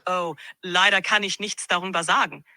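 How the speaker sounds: tech chat spoken in German; German, chatty and friendly. Acted. AI asked to speak German, in German. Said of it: "Can you do German?".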